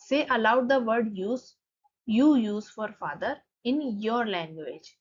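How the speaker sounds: slow, careful reading of the English line; slow textbook reading. Shown as a demonstration. Teacher reads the book line slowly to students. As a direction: spell it out for the class, word by word.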